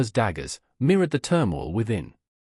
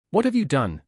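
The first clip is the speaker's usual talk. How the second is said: shocked yell, pitched up; 6 semitones higher than usual. A narrator's reading. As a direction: throw the question out in shock. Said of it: "he yelled".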